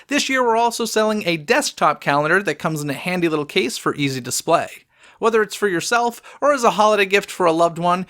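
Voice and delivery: upbeat sponsor read. Acted. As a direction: sell it like a radio spot. Host reads podcast ad.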